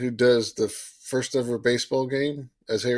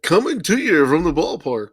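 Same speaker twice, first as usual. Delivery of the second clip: higher, swooping ballpark announcer voice; baseball broadcaster; 5 semitones higher, 3 dB louder than usual. Retold or imitated. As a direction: call it out like a play-by-play host. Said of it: "and they're like".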